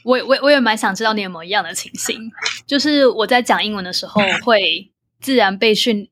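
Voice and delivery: whispering. Real, not acted. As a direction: whisper it close to the mic. Unvoiced whisper all through.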